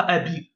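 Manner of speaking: abi with an ee vowel after the b; wrongly added i. Shown as a demonstration. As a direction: end abi on a clear i syllable. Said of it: "il n'y a pas un trait en bas". (abi avec un i final en trop)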